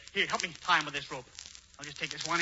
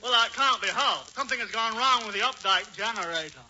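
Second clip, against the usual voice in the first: pretending to be Hubert; 6 semitones higher, 4 dB louder than usual. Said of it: "make believe that you're Hubert Updike".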